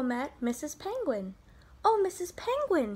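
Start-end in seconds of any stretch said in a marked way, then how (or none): 1.8-3.0 high, eager little bird's call; crying out. A narrator's reading. Little bird greeting Missus Penguin, crying out. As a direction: call out hopefully, pitch well up. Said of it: "he cried".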